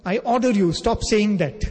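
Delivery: offended king. Retold or imitated. Storyteller voices a king whose authority is disobeyed, mildly indignant. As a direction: build from a measured rebuke to an emphatic order. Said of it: "The king gets offended".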